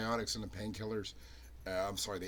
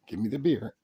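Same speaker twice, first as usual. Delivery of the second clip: firm dog command; 8 dB louder than usual. Real, not acted. Firmer repeat to dog.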